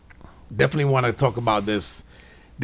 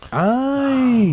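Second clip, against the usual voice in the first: sudden high, loud exclamation; mock surprised ay; 6 dB louder than usual. Friend mocking a rude stranger caught out, high surprised ay. Mock reaction to Spanish reveal.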